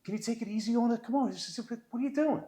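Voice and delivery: a put-upon grumpy spectator pleading; complaining old man. Retold or imitated. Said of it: "he let me know because it's like".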